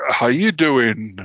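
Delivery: lightly attempted sitcom catchphrase, drawn out; slow, half-hearted American sitcom impression; Jerry from Friends. Faking another man's voice to fool the aunt, lightly done impression. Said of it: "was Jerry from Friends saying".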